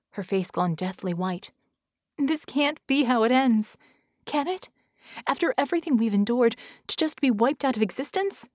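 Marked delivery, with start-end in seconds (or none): 2.2-8.5 high, dismayed questioning; despairing plea. Acted. Vicky protests being wiped out, despairing. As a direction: plead against the ending, voice lifted.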